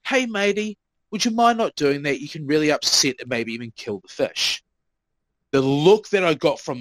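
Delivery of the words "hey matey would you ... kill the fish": friendly tone. Retold or imitated. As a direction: imitate yourself gently asking a kid to stop. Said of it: "in this tone of voice".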